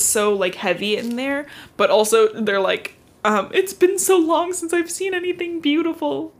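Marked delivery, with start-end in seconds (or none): 3.5-6.3 high breathless awe at the gowns; awed gushing. Retold or imitated. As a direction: gush like a starstruck prep team. Prep team gushing over gowns.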